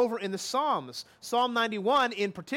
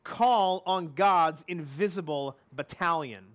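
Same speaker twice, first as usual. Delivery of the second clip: slow lesson title; 4 semitones lower than usual. Shown as a demonstration. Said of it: "warfare lesson number two".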